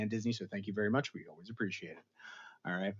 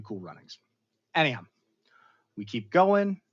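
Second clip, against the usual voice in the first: ordinary talk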